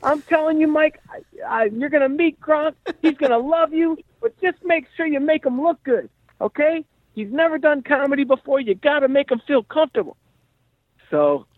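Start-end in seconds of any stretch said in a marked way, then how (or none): 0.0-10.2 very high-pitched old-school character impression; Henry. Old-school manager pitching a job to his comedian friend, high caricature voice. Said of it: "He talks like this. He's like".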